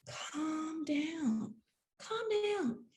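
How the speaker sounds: soft, hushed calm down; soothing whisper. Retold or imitated. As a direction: settle her down in a whisper. Cousin soothing her.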